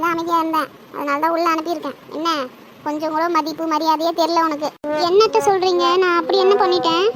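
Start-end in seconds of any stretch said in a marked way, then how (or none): 5.1-7.1 loud, defensive protest; indignant protest. Acted. Daughter-in-law denies her mother-in-law's accusation, indignantly. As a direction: protest innocence with raised volume.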